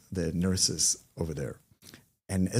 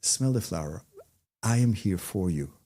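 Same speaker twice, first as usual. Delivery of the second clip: heartfelt. Shown as a demonstration. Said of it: "take it from the heart".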